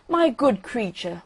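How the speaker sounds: slow, lofty address to an inferior; mildly haughty aristocratic rocket. Acted. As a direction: talk down to the duck. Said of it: "in a very haughty tone of voice".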